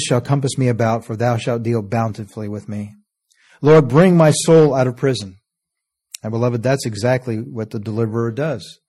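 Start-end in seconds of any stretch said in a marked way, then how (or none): 3.6-5.4 fervent plea. Acted. Verse cried out again.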